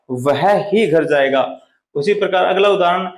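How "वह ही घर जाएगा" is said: slow, ही pressed; stress on ही. Shown as a demonstration. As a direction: stress ही firmly. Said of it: "यानी और नहीं जाएगा".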